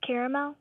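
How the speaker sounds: caramel said CARE-uh-mel. Shown as a demonstration. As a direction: say caramel in three syllables with EH first. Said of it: "I usually say".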